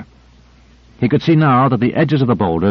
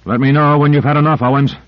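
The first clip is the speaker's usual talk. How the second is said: panting; 4 semitones higher than usual. Acted. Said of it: "he panted".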